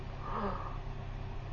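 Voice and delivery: a sharp, high, breathy intake of shock; imitating a stunned crowd's gasp; reenacted group gasp. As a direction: gasp as if the whole group just saw it. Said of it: "and they're going".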